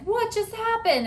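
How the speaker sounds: high, startled question. Retold or imitated. Family reacting to the door slamming. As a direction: caught off guard by the crash. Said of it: "everyone's like".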